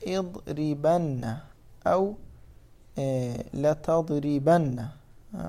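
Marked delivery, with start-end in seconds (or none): 0.1-1.4 "اضربن" very slow, in separate syllables; slow demonstration. Shown as a demonstration. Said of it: "تقول". 3.5-4.9 "لتضربن" drawn out slowly; slow demonstration. Shown as a demonstration. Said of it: "مثلًا تقول".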